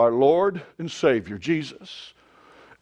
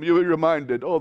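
usual speaking voice

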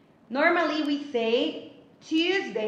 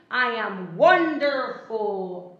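stretched, emphatic delight on wonderful; acted wonderful mood; 5 dB louder, slower than usual. Shown as a demonstration. Teacher showing mood words to pupils, acted delight. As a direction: draw it out slowly, punching the first syllable louder.

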